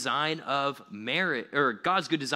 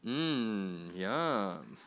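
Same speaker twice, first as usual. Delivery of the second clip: sarcastic yum; 5 semitones lower, 4 dB quieter than usual. Pretend. Tasting the broccoli onion shake.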